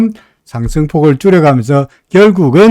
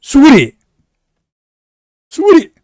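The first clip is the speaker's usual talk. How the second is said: sharp high Gyeongsang army shout; loud Gyeongsang dialect order to hit the dirt; barked Gyeongsang dialect command; 12 semitones higher, 6 dB louder than usual. Acted. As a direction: yell it like a Gyeongsang platoon leader under fire. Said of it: "명령을 내렸어요".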